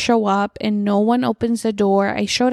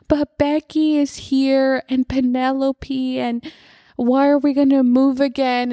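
imitating crying daughter; 4 semitones higher than usual. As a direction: lightly voice a little girl pleading through tears. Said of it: "she starts crying really loud".

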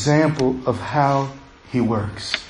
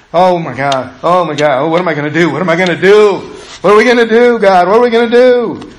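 retold panic; 3 dB louder, faster than usual. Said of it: "here I am in my thoughts".

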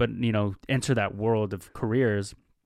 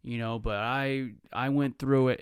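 mock valedictorian; slower than usual. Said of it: "it kinda becomes vanilla. It, it's like".

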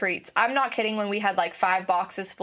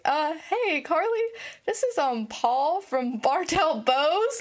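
higher, slow and hesitant voice; imitating awkward caller; 5 semitones higher, slower than usual. The bar owner calling back awkwardly, higher hesitant voice. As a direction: lightly voice a shy caller. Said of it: "He's like".

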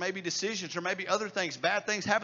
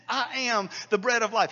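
"I am the bread of life." declared louder, stress on "bread"; bold proclamation; 4 semitones higher, 8 dB louder than usual. Acted. Quoting Jesus, repeated boldly.

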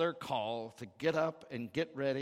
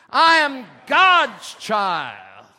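all-out high, slow preacher's shout; shout to carry; 8 semitones higher, 22 dB louder, much slower than usual. Shown as a demonstration. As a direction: bellow it so the neighbouring church hears. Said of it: "so First Church can hear you".

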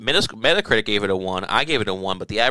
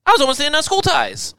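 hammed-up high, loud voice of a boastful YouTuber; Jamie Kennedy; 4 dB louder than usual. Mocking a comedian's YouTube brags, silly high voice. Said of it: "YouTube channel where he's like".

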